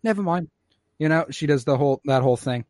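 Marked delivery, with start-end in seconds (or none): 0.0-0.5 put-on high, hesitant kid voice; small child's plaintive call; Omega. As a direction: call out high, then give up. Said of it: "she's like".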